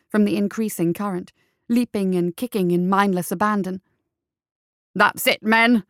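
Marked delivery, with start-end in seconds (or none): 4.9-5.8 loud, strained cheer to the troops; excited captain's yell; screech. A narrator's reading. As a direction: screech encouragement while struggling. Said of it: "screeched the struggling captain".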